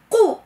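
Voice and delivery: stretched, heavy qu sound; emphatic qu. Shown as a demonstration. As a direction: sound the qaf fully in قو. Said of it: "هذه القو هذه".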